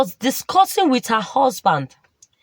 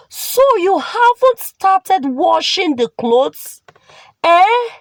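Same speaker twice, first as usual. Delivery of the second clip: scolding aunt; 6 semitones higher than usual. Acted. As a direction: scold the girl for idling, punching the final eh. Aunt scolding niece at laundry.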